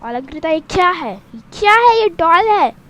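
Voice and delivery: put-on mother scolds the girl over the new doll; angry scolding. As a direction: confront her over the doll. Angry mother confronts daughter.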